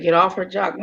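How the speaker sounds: cracking up mid quote; laughing through the words. Real, not acted. Laughing while quoting the clip.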